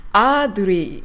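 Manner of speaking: アードリー with long "aa" and "do" for the t; アードリー, long first vowel, "do-rii" after it; closer katakana approximation. Shown as a demonstration. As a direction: say アードリー as katakana near English artery. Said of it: "この辺が近いかな".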